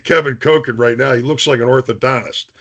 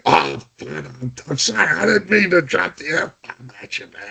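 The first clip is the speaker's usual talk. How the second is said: mock sheepish apology; 8 dB quieter than usual. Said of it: "apology after the outburst".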